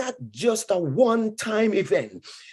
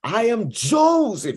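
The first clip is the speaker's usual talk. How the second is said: Joseph revealing himself; 5 semitones higher, 3 dB louder than usual. Acted. Preacher voicing Joseph's reveal.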